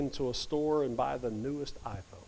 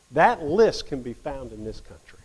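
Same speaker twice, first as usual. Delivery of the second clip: louder, hit "That" hard; louder, punched first statement; emphatic; 6 dB louder than usual. Acted. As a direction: declare it firmly to the class. Repeats line for emphasis.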